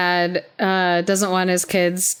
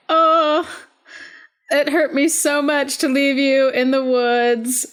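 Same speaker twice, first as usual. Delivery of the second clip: mock regretful dad; 4 semitones higher than usual. Mocking the dad's fake regret.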